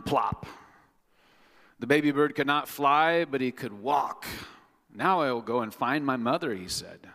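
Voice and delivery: bright, animated storybook reading; reading to children. Acted. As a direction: bring the picture book alive for little ones.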